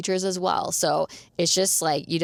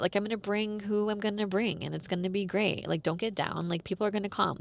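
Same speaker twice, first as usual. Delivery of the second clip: softer, gentle reassurance as if from God; calm reassuring God; 5 dB quieter than usual. Retold or imitated. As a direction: soothe her: people will come, softly. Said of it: "God just meant".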